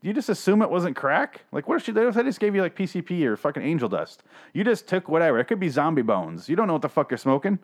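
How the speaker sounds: high, fast, disbelieving rant; exasperated at character. Retold or imitated. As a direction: scold her like she's crazy for smoking anything. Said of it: "I'm like".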